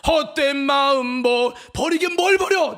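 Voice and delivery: sung line breaking into a high scoff; loud mocking retort. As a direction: inner voice's loud, drawn-out scorn. Song cut by scoffing inner voice.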